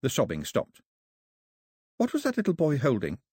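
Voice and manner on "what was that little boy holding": hoarse. Acted. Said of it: "said Daphne hoarsely".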